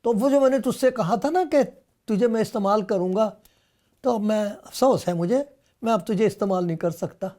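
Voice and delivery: mock disappointed. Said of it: "یہ نہیں کہا کہ".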